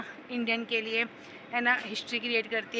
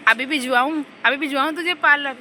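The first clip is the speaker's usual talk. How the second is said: sarcastic mom retort; 7 dB louder than usual. Retold or imitated. Mother retorts to daughter in bus.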